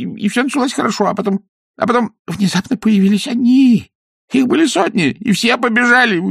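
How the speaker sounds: high, anxious peasant voice; frightened villager gabbling; nervous weaver. Acted. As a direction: babble the story out scared.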